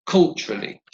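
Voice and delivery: "culturally" stressed on its first syllable; "culturally" with strong first syllable, falling away. Shown as a demonstration. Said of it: "stress is on the first syllable".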